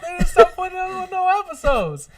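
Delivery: high, put-on comedian narration; Tony Woods narrating. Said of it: "Narrated by Tony Woods".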